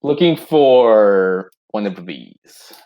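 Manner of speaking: slow, low, talking around a spoon; spoon in mouth. Acted. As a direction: speak with a spoon in your mouth. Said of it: "Mikael goes".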